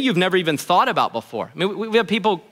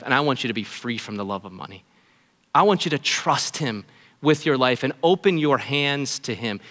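loving pastor voice; 3 semitones lower than usual. Real, not acted. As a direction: reassure the congregation lovingly. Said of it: "in my most loving pastor voice".

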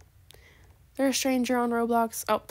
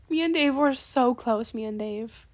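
slow mock grief, dropping off at the end; sarcastically sentimental. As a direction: ham up fond memories of a lost pet. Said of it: "I'm being extremely sarcastic".

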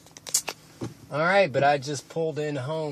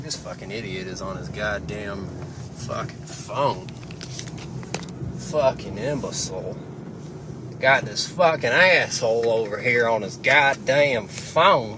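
angry driver impression; 4 dB louder than usual. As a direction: ham up an annoyed driver cursing at him. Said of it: "That's my, uh, impression of people".

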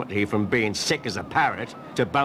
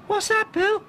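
cried out. Acted. Ross crying out at Cromarty's spots, squeaky. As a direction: yelp in shock like a cartoon boy. Ross's boy voice.

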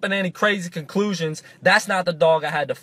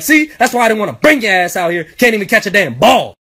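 higher-pitched irritated scolding; mad dad; 5 semitones higher than usual. Retold or imitated. Dad scolding his son over missed catches, irritated. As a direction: act out a fed-up father telling off his kid. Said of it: "my dad started getting mad".

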